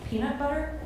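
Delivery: "Peanut butter?" with a rising American twang; American accent. Shown as a demonstration. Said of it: "Am I doing it?".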